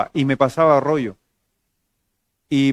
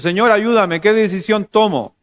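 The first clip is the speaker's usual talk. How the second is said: raised, urgent sermon delivery; higher, pressing preacher's voice; preached plea; 6 semitones higher, 4 dB louder than usual. Real, not acted. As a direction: act out a believer calling on the Lord. Acts believer's plea in preaching.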